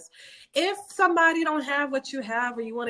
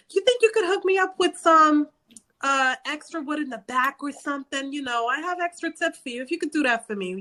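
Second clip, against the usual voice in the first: higher, friendly wheedling voice; butter up the store clerk for a deal; playful New Yorker angling for a hookup; sweet-talking customer; 6 semitones higher than usual. Retold or imitated.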